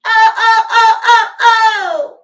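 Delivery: high, loud laughing wails; howling with laughter. Real, not acted. Reader howling with laughter at the message, high and loud. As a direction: let the laugh break into cries. Crying laughter after quote.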